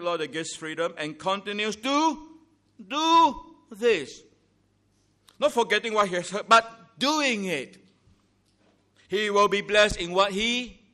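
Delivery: high, loud climactic sermon delivery; fiery preaching. Acted. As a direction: drive the point home from the pulpit. Preacher rises to full force.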